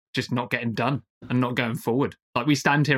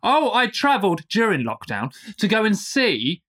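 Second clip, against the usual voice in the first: slow, mock-excited swank with a raised pitch; mocking boaster; 5 semitones higher than usual. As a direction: imitate a boaster, higher and drawn out. Mocking people boasting about walrus trips.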